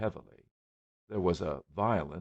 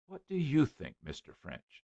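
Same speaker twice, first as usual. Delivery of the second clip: anxious; 8 semitones higher than usual. A narrator's reading. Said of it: "said Missus Brown anxiously".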